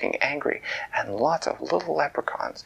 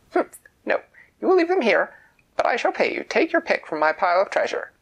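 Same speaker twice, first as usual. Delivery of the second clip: high and loud, a royal refusal; imperious queen; 10 semitones higher, 5 dB louder than usual. A narrator's reading. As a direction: she lays down the law, then bargains. Queen voiced in a story.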